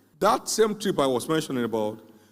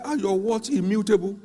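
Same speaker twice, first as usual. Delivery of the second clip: raised, insistent challenge; pressing question; 7 semitones higher than usual. Retold or imitated. Preacher retelling how he challenged the young man, insistent. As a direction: demand it of him firmly.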